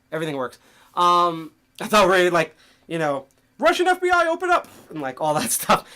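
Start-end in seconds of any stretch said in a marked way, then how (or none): 3.6-4.7 high, loud mock Russian agent yelling at the door; mock raid shout. Pretending Russian FBI agents raid his stream, high mock shout. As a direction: bang on the door and bellow, hammed up.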